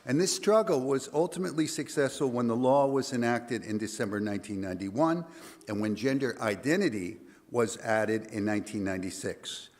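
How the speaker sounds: hoarse, gravelly voice. Real, not acted. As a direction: voice worn rough from singing. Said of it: "if I sound a little gravelly".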